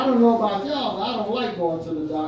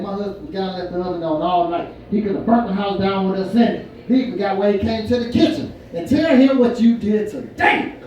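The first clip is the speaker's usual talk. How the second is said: mock ranting wife; 5 dB louder than usual. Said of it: "My wife went off".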